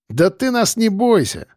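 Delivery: high, oily reassurance; leering drawl. A narrator's reading. Thug telling her not to fear, leering. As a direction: coax with a greasy smile. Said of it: "протянул Белобрысый с сальной лыбой".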